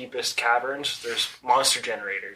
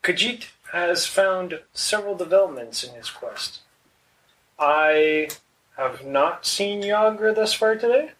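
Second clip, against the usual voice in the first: formal character voice; 4 semitones higher, slower than usual. Acted. Player voices Khajiit in character.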